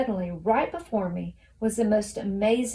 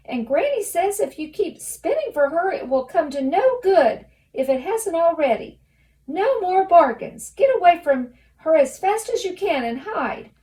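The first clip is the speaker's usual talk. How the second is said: very high and loud gnome squeal-shout; half shouting, half squealing; 9 semitones higher, 8 dB louder than usual. Acted. Gnome reciting Red's letter to Rump, shrill half-shout. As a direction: belt the letter like a shrieking gnome. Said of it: "half shouting, half squealing".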